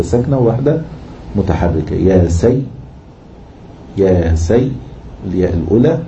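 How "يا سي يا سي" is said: "يا سي" cut off on the first, vowelless ya; split double ya. Shown as a demonstration. Teacher splitting a doubled letter for students, "يا سي" halted on ya. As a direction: stop on the first half of the doubled ya in "يا سي". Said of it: "نفكها بيائين".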